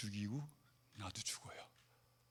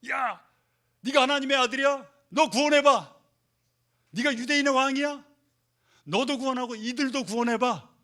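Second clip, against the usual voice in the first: higher, louder jeering taunt; mocking crowd; 9 semitones higher, 9 dB louder than usual. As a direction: sneer at him like the mob at the cross. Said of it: "이러면서 조롱하고 있어요". (조롱하는 군중처럼 높고 크게 비웃으며)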